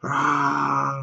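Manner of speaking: soft, drawn-out imitation roar; half-hearted "rah" yell; mock yell. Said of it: "He was yelling".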